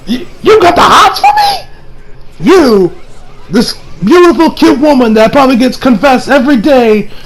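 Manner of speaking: a vain beauty tickled by the confession; flattered woman. Retold or imitated. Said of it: "She's like".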